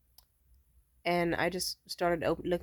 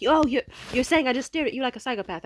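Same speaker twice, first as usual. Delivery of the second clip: mocking indignation; 6 semitones higher, 4 dB louder than usual. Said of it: "he kept arguing".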